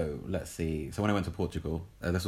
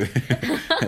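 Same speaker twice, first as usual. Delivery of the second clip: loud high mock boo through a laugh; 8 semitones higher, 8 dB louder than usual. Pretending to be French friends, loud mock boo. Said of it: "They're like".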